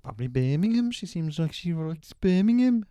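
hammed-up Birmingham accent, swooping and loud. Shown as a demonstration. Podcast guest trying out the accent she might learn, rough Birmingham accent. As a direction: have a rough go at Brummie. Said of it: "bloody awful".

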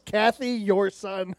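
dad's deadpan blame. Retold or imitated. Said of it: "I love how it was".

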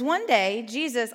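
put-on sing-song reading to little children, big pitch swoop; children's storybook voice. Shown as a demonstration. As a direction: lilt it like a tale for toddlers. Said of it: "talk in little children voice".

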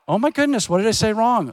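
high, startled worried thought; alarmed inner thought. Retold or imitated. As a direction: gasp at your own mistake in your head. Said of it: "And I've thought".

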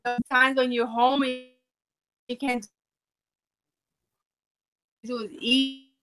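choppy broken-up connection; cutting in and out on a bad line; breaking up space radio. Real, not acted. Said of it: "Hold on, Amanda".

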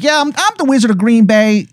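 high, hammed-up Wisconsin twang; bad Wisconsin accent. Wizard introduces himself in a bad Wisconsin accent. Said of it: "he's like".

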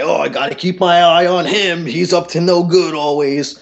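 high, teasing mock suspicion; put-on busybody needling, pitched high; mocking jeer. Jealous customer needling him publicly.

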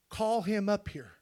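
soft, low reverent retelling; hushed. Acted. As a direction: draw them in softly. Quiet retelling of God's words.

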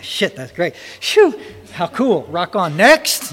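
imitating his own carefree relief, jumping high on "Phew" and "Next"; mock chirpy "rock on, next", tossing it off lightly; breezy relieved brush-off. Retelling his reply to his brother-in-law, a mock-relieved brush-off. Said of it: "And I'm like".

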